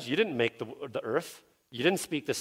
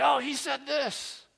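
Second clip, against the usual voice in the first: mock gossip; 11 semitones higher, 4 dB quieter, slower than usual. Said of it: "They'll say".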